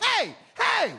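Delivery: very high, loud yapping dog voice; frantic, high-pitched mock dog shouting; excitable talking dog. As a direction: shout it like an overexcited dog at the door. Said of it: "If my dog could talk".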